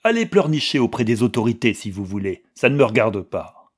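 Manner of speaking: loud, brisk, rude brush-off; imitated brusqueness. Manske imitates the police chief, rude and brusque. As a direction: rattle it off dismissively as the officer. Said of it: "c'est ainsi que ce sbire s'exprima".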